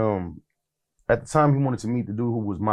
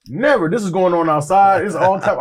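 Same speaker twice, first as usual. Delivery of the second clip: re-enacted excitement; 8 semitones higher, 6 dB louder than usual. Acts excited reaction to the call.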